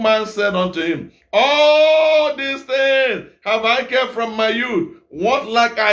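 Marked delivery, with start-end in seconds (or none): 1.3-5.9 put-on a proud young man, slightly raised; self-satisfied young man. Young man claims to Jesus he kept all, slow and proud.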